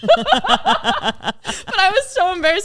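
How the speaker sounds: high, loud words through real laughter; real giggling, voice pushed high; embarrassed laughing. Real, not acted. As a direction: laugh helplessly while confessing.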